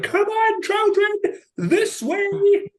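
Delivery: hammed-up teacher rounding up children; bossy teacher voice. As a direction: herd a school group across London. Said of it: "they're the loudest".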